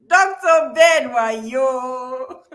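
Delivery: slow, loud, drawn-out name call; grand name announcement. Real, not acted. Host hails the guest by name at the close, slow and loud.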